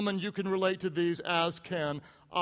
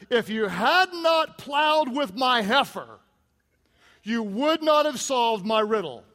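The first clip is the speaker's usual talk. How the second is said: angry retort; 2 semitones higher, 5 dB louder than usual. Retold or imitated. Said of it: "He gets angry".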